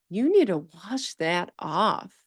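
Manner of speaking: imitating a child telling off the teacher; mock child's reproach with exaggerated intonation; pointed child's intonation. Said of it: "With the intonation".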